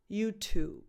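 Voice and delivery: "YouTube" stopped on the final B; clean final B. Shown as a demonstration. Teacher modelling for learners, "YouTube" ending at the B. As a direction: say "YouTube" with nothing after the B. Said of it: "stop at the actual sound of the final B".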